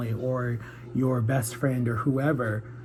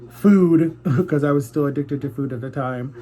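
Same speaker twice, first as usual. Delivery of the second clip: laughing; 6 dB louder than usual. Real, not acted. Laughing at her own food addiction.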